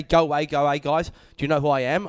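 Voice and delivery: mock celebrity. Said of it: "did you say".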